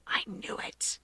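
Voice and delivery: silent mouthed words, barely breathed. Acted. Brother mouthing to Keigo behind his sister's back, soundless. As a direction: mouth it without voice, a knowing tease.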